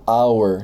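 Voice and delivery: hour going straight to the vowel; silent H. Shown as a demonstration. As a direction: say hour like "our", no H. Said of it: "Não tô falando H".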